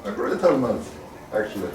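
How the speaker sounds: muffled inside a metal helmet; talking through a closed helm. Real, not acted. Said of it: "How is it talking in the helmet?".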